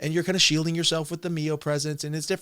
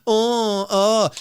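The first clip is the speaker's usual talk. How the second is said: imitating a giggling, flustered greeting, pitched up; lightly hammed-up girly giggle through the words; mocking her laughing at the caller; mock giggly reply; 4 semitones higher, much slower than usual. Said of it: "and you were like".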